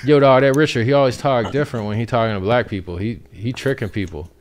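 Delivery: imitating a complainer, high and loud at first; mock complainer. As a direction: put on an African-American accent, starting loud then settling. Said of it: "everyone's gonna complain and be like".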